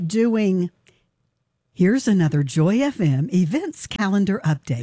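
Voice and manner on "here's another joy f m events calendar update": lower, polished radio announcer read; fancy radio voice. Shown as a demonstration. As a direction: read it like an old-school DJ. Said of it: "That is my fancy radio voice".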